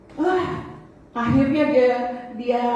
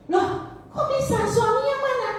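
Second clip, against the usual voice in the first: much higher, startled questioning; a grandmother's alarmed questions; 13 semitones higher than usual. Retold or imitated. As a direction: ask as if caught off guard.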